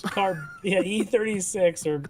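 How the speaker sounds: slow drawn-out bingo call; bingo caller. Retold or imitated. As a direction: call the number like a bingo hall. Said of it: "You got a bingo caller saying".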